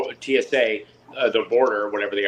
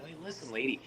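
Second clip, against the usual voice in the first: fed up rant; 4 semitones higher, 5 dB louder than usual. Retold or imitated. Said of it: "I just had it with the girl".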